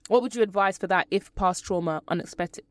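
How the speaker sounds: talking with a retainer in; words slightly blurred by retainer; wearing a retainer. Real, not acted. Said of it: "sorry, I've got my retainers in today".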